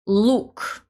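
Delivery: "look" with a hard, dark l; "look" said with a firm hard l and a plain oo. Shown as a demonstration. Teacher repeats the hard "look" slowly for learners. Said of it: "so the consonant l is hard in this word".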